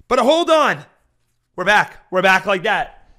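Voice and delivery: big celebratory whoop; excited shout. Real, not acted. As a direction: shout it like the hand just came through. Gamble hand suddenly wins.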